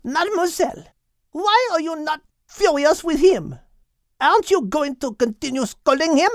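put-on very high-pitched French-accented protest; incensed hen. A narrator's reading. Hen demands Mademoiselle be furious with Al, incensed high voice. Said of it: "Henriette was incensed".

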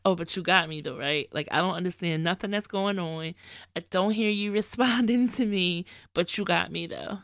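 dry mock trust, "right" lifted like a jab; sarcastic. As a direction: tease God with a wry, knowing question. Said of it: "I'm, like, being sarcastic when I'm saying that".

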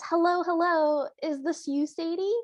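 lightly hammed Brooklyn phone greeting; over-the-top Brooklyn accent. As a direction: imitate a cartoon Brooklyn gal calling a friend. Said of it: "talking in a very over-the-top Brooklyn accent".

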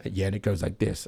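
light, half-hearted New York accent. Shown as a demonstration. Host showing the joke-night script, light New York accent. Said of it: "do it in a New York accent".

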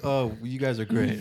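slow, mock-sweet praise with a sarcastic edge. Imitating the guest's sarcastic thanks for the hosts. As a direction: lay the fake compliment on thick and slow. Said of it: "sarcastically like".

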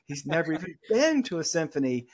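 imitating scandalized disbelief; mock shock. Teachers hearing about the Southern student, mock shock. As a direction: react as if appalled, lightly hammed up. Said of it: "And they were just shocked".

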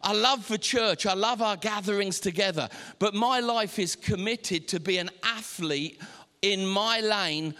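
insistent, emphatic sermon build; impassioned preacher, measured and forceful; rousing preaching declaration. Acted. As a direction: drive each phrase home like a vow.

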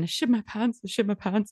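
high, panicked repeated wail; Bridesmaids panic. Retold or imitated. Quoting Bridesmaids in the car, high panicked wail. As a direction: mimic the film's panicked car scene. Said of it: "like that".

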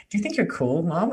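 put-on light high kid's teasing voice; teasing daughter voice. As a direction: tease mom like a cheeky kid. Daughter's taunt acted out.

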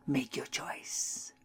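slow ominous whisper. A narrator's reading. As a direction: breathe it out slowly. Old woman's ominous final offer.

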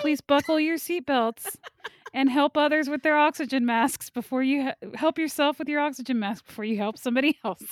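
lightly mocking cabin safety announcement; flight attendant voice. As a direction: parody an airline safety briefing. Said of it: "She has her flight attendant voice on".

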